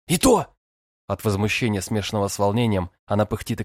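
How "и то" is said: high, louder indignant snap; indignant girl retorting. A narrator's reading. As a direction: snap back, flustered and outraged.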